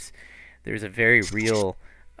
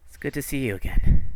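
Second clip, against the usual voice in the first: lightly acted greeting, higher and louder; Ronan; 5 semitones higher, 7 dB louder, faster than usual. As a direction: greet an old companion, pitch lifted. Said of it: "and he goes".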